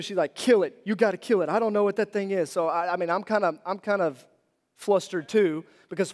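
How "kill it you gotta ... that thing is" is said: higher, louder mock yell; mock panicked yelling; retold screaming. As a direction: imitate her frantic demand, half-screamed. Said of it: "She's yelling, she's screaming".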